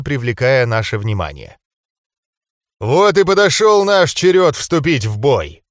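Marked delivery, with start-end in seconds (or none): 2.8-5.6 loud growl through the words. A narrator's reading. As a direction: growl it out, ready for battle. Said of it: "прорычал Абалим".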